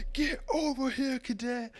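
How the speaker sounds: high barked summons; drill sergeant bark. Acted. Sergeant summons the fallen cadet, barking. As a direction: call the cadet over sharply. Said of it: "and he says".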